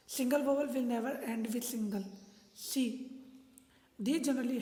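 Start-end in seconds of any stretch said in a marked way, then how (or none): 0.1-2.0 slow, word-by-word dictation of the rule. Shown as a demonstration. Teacher dictating a spelling rule, slow and deliberate. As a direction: read the rule out slowly for students to copy. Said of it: "rule number eleven है हमारा".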